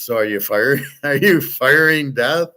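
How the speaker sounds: laughing question. Retold or imitated. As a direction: ask it amused, breaking into a laugh. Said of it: "And, and Brad Pitt goes".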